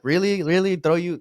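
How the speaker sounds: high, incredulous mock Really?; mock disbelief. Rescuers to the drowning man, high mock disbelief. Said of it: "so they're like".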